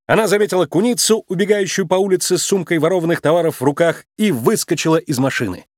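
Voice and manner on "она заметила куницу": ordinary delivery, nothing marked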